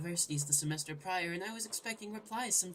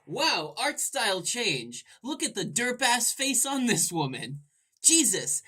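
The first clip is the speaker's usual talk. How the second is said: louder, amazed outburst; excited shock; 3 semitones higher, 8 dB louder, slower than usual. Real, not acted. Gamer reacting to a sudden art style change. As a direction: burst out laughing at the ugly art.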